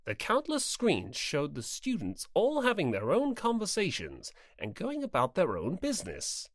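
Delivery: calm storybook narration; even narrator voice; story narration. A narrator's reading. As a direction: read it as the narrator.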